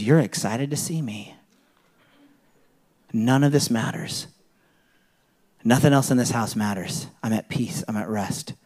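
gently, at peace, trailing off; lightly voiced contentment at being home; soft, contented inner voice. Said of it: "that says".

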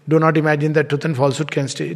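fast, offhand and indifferent. Shown as a demonstration. Teacher showing the indifferent way, fast and offhand. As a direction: toss it off as if it doesn't matter. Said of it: "Totally indifferent to the whole thing".

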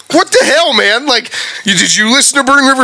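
exasperated high outcry; angry outburst. Real, not acted. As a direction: blow up in disbelief at the player. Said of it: "sorry, I'm angry".

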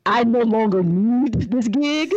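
laughing through the words; can barely finish for laughing. Real, not acted.

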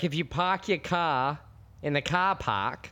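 tentative Boston accent attempt. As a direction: try a Boston accent, dropping the r's. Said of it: "I can't do it, but I'm gonna try".

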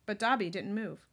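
clear, projected storybook reading; story narration. A narrator's reading. Reader telling of Dobby holding Harry's slimy sock, story narration. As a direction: read the tale aloud with emphasis.

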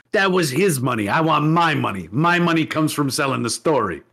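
put-on mobster's mom in rough New York accent; mock New York mother; botched New York accent. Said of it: "I'm doing the wrong accent".

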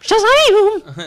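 loud high heroic yell; shouting catchphrase. Pretend. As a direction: belt it like a superhero.

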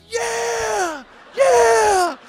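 high, loud whooping cheer; mock excited cheer. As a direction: hype it up like a game day chant. Buddies misunderstand, cheer back.

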